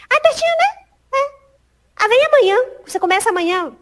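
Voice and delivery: high, loud, imitated enthusiasm; eager interviewer. Interviewer tells applicant to start tomorrow, eager and high. Acted interviewer hiring her on the spot.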